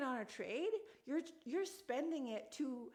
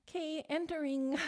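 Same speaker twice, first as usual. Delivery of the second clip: higher, louder, bubbly and playful; cute playful entry; 5 semitones higher, 5 dB louder than usual. Real, not acted. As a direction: sing it out like you're thrilled to enter. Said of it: "I'm so cute".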